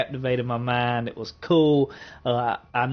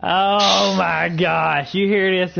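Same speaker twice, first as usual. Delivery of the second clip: surprised; 5 semitones higher, 5 dB louder, much slower than usual. Real, not acted. Partner reveals surprising list order.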